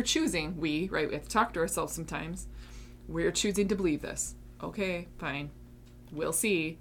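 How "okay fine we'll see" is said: a softer, reluctant, sceptical okay fine; grudging inner voice. Retold or imitated. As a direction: sound unconvinced, humouring yourself. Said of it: "that was a lot of my inner talk".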